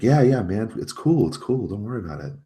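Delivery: high-pitched, hurried reassurance; placating underlings. Acted. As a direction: back down and smooth it over, voice up high.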